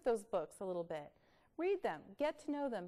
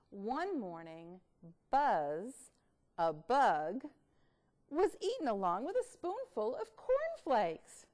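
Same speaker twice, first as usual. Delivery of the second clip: lively storybook reading, louder; reading to children; 2 semitones higher, 6 dB louder, slower than usual. Acted. Teacher reading a silly bug story to kids. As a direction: read it big for the class.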